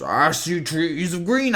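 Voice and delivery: a hint of a famous jazz singer, very slow; jazz singer impression. Host shows the deep-voiced singer he is not, slow and lightly voiced. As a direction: croon it slowly like the jazz singer. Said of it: "who had that very deep voice".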